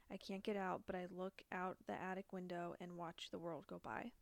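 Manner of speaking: measured, even read-aloud delivery; letter reading. Acted. Podcaster reading a killer's rambling letter to co-host, measured read-aloud. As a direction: read it out steadily, phrase by phrase.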